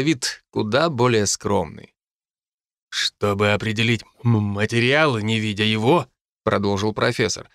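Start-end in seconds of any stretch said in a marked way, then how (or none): 2.9-6.1 stuttering professor. A narrator's reading. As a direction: lower voice, catching on the first consonant. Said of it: "что он заикается". (заикающийся профессор)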